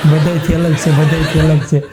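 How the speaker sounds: teasing repeat of the boast while laughing; mocking through laughter. Wives mocking a husband who is different, laughing. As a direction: giggle out the neighbour's boast.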